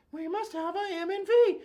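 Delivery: high cartoon mouse voice; Mickey Mouse voice. Shown as a demonstration. Teacher modeling the students' answer in a high cartoon mouse voice. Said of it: "And you have to go".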